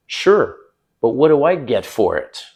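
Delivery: playful teasing tone. Retold or imitated. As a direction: tease her with a smile. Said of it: "I'm kinda teasing her".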